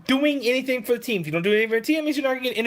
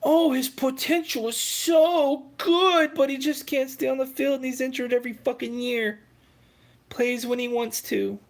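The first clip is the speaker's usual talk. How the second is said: mocking the fans; 3 semitones higher than usual. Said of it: "it's all because of the same shit you are".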